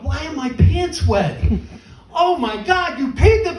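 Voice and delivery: rising pitch, growing disbelief; climbing from confused to horrified; dad waking up in a wet hotel bed, aghast; shocked discovery. Retold or imitated.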